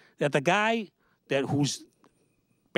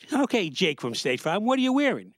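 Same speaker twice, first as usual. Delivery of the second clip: mock suspicious wife; 3 semitones higher than usual. A wife quizzing her husband on his call, mock suspicious.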